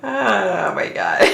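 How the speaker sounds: slow laughing sigh; drawn out through laughter. Real, not acted. Laughing retelling the joke.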